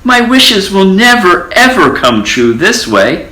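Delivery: squeaky, woeful complaint; high dismayed mouse. A narrator's reading. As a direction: mouse losing hope. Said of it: "cried the mouse".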